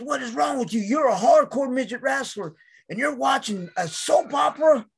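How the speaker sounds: high-pitched, worked-up retold disbelief; incredulous scolding. Boss appalled at wrestler watching soaps, high incredulous scolding. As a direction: demand an explanation, rising in pitch.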